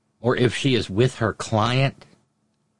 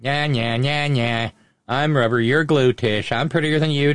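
sing-song taunting. Retold or imitated. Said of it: "Darlene in Connecticut".

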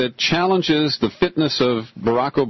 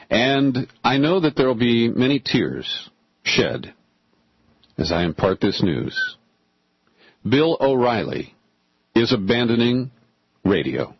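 mock solemn. Host imparts O'Reilly's radio exit to listeners, mock solemn. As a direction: break the news with long, pretend-grave pauses.

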